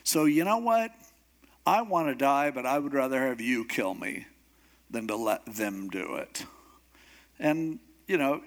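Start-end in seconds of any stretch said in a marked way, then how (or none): 0.0-6.5 mildly exasperated complaint; put-upon protest, lightly acted; frustrated. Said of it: "obviously he's a bit frustrated".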